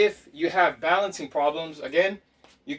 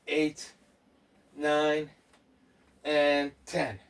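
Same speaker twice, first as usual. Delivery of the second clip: steady count, each number spaced out; counting out reps; much slower than usual. Real, not acted. Coach doing squats with viewers, measured count. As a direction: count the reps evenly in a level voice.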